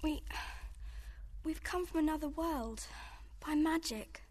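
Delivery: timid whisper. Acted. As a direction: answer her, barely daring. Frightened girl answers the queen.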